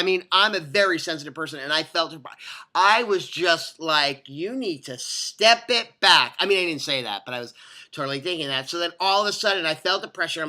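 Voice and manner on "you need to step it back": slow, emphatic imagined warning; mock-stern, drawn-out order; firm warning. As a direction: space the words out to warn someone off.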